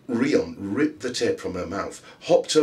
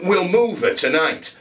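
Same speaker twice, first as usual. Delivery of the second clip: plotting villain; 10 semitones higher, 7 dB louder than usual. A narrator's reading.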